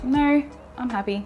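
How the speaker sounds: brief, unreactive retold denial; giving nothing. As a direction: answer him without taking the bait. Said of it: "gave him absolutely nothing".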